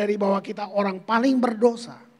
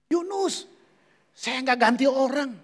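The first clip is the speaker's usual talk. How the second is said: voice of God; 3 semitones higher, slower than usual. Retold or imitated. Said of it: "Tuhan bilang ini".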